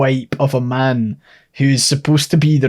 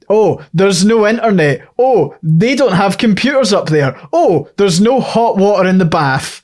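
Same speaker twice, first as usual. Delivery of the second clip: higher-pitched mock moaning; mimicking clichéd grumbles, pitched up; mock complaining; 4 semitones higher than usual. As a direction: list off complaints in a sing-song mocking tone. Mocking film's Scottish tropes.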